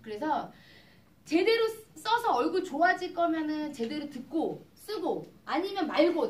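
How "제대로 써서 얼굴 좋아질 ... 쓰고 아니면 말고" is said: retold blunt ultimatum. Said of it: "내가 그랬어요".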